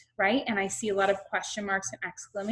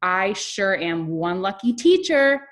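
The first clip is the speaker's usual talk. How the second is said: expressive reading, stretched out for emphasis; lively classroom read-aloud; reading with expression; 4 dB louder than usual. Shown as a demonstration. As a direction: read it like a cheerful, proud teacher to young children. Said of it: "read with expression".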